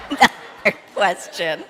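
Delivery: laughing through the words; can't hold the giggles in. Real, not acted. Leader to kids, giggling through her question. Giggling during children's talk.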